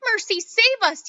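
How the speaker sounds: mother screams as Violet turns blue; screaming mother. Acted. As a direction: draw the scream out in horror. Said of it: "yelled Missus Beauregard".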